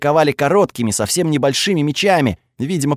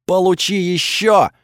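shouted; 4 semitones higher than usual. Acted. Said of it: "выкрикнули за моей спиной".

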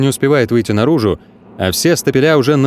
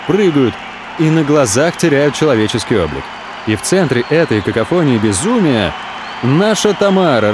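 ordinary delivery

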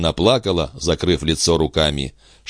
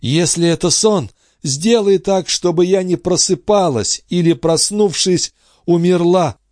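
a much higher, trembling plea; Andrée praying in bliss, much higher; Andrée's rapturous prayer; 12 semitones higher, 3 dB louder than usual. A narrator's reading. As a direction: pray breathlessly not to wake.

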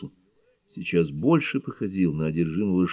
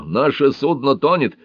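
higher, louder panicked cry; 7 semitones higher, 5 dB louder than usual. A narrator's reading. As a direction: cry out that the ship is sinking. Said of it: "закричал Рого". (испуганный крик, выше и громче)

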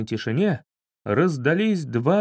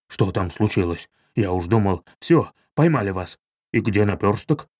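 much lower, heavy worried voice; gruff gang member Goliath; 6 semitones lower than usual. Acted. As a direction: lower the voice for the big guard. Goliath figure voice. (низкий тяжёлый голос Голиафа)

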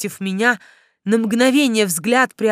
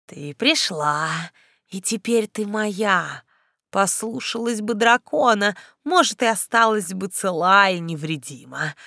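gloating necromancer. Acted. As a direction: savor every word, menacing. Necromancer gloats over captive. (зловещий некромант, медленно)

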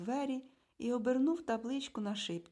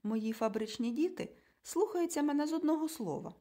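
higher, louder, self-satisfied; smug boast; 6 semitones higher, 4 dB louder than usual. A narrator's reading. Man in glasses boasting to the couple, smug. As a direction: gloat about obedient children.

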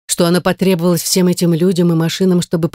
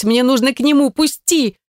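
frantic shout; 8 semitones higher than usual. A narrator's reading. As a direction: pitch climbing to a high desperate cry. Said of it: "кричала я, отбиваясь".

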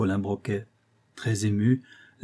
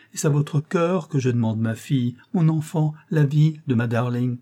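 a touch of a desperate mother; 4 semitones higher than usual. Acted. Mother pleads with the detective.

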